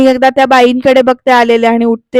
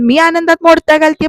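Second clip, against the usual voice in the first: higher, indignant mock yell; retold outraged yell, pitched higher; mock shout; 5 semitones higher than usual. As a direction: throw the question back as a hammed-up shout. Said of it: "ती म्हणते एकदम ओरडून".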